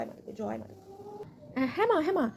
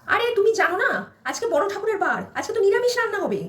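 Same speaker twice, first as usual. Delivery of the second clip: raised, higher scolding mother-in-law; 5 semitones higher, 3 dB louder than usual. Acted. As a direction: shout at the bride over the dal.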